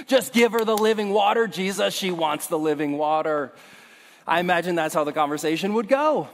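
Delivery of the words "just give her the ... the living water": exasperated plea. Acted. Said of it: "repeating the plea".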